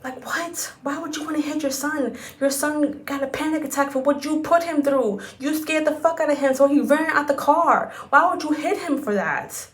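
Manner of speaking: exasperated, can't-believe-it rant; incredulous outrage. Real, not acted. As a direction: demand an answer from the father in disbelief. Outraged at the father's actions.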